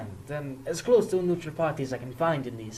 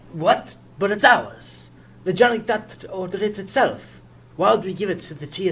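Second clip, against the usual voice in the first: indignant surprise; 4 semitones higher, 4 dB louder than usual. Acted. News police seize the exchange.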